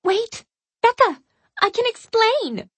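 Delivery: high, loud frantic plea; desperate pleading. Acted. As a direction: beg her to stop, calling after. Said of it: "Joanna's pleas".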